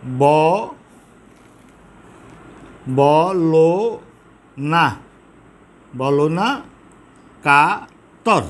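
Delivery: very slow, each syllable pulled apart; drawn-out syllable-counting recital. Shown as a demonstration. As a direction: sound out every syllable for counting. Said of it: "দেখো ব, খেয়াল করো একটু".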